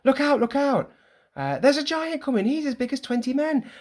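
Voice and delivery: a lookout warning the crowd of a giant; high alarmed warnings. Acted. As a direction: voice up high, calling out in panic. Acting play script characters.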